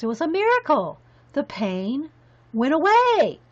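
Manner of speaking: halting mock wonder, pitch lifting and falling; mock amazed relief. Gym teacher marvelling that his toothache vanished, mock amazement. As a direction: act out a miracle cure, pausing mid-phrase. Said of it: "He goes".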